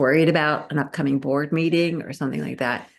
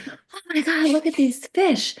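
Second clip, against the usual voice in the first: very high, awestruck cry; amazed exclamation; 11 semitones higher than usual. Retold or imitated. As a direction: relive the amazement at a huge sudden sight. Amazed at millions of fish.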